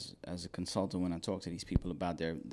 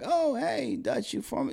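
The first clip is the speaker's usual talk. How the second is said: eager greeting; slower than usual. Retold or imitated. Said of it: "And they'll be like".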